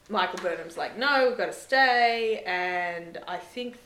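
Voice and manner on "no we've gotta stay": insistent quote. Retold or imitated. Burnham insisting they stay.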